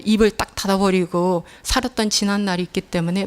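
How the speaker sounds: ordinary delivery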